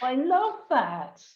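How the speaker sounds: slow and emphatic, voice full of feeling; moved, near tears. Real, not acted. Host to guest, deeply moved, slow and heartfelt. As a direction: savour each word, moved. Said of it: "I almost burst into tears then".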